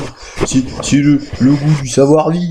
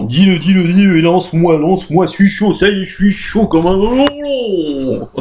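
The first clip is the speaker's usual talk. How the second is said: provoking challenger; 3 semitones higher than usual. Acted. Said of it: "qui me provoque en disant".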